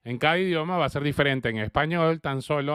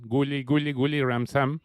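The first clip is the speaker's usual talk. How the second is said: playful tempo change. Shown as a demonstration. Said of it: "haciéndolo más rápido o más lento para hacerlo divertido".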